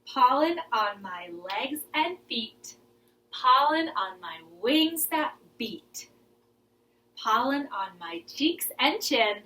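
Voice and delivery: rhythmic rhyme with movements; lilting kids' rhyme; poem recitation. Shown as a demonstration. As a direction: chant it while acting it out. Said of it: "let's do it again".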